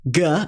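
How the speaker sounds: "G" as a hard stop plus ah. Shown as a demonstration. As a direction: say "G" as in go, ending on ah. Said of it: "pronounced in four different ways".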